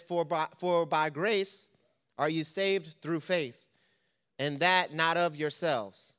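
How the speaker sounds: slow, measured reading of the verse; scripture reading. Acted. Preacher reading Ephesians to the church, slow and measured. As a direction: read the Bible passage deliberately.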